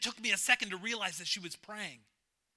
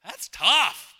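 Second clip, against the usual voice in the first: 1 emphatic; 3 semitones higher, 10 dB louder than usual. Acted. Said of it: "That is some hard stuff".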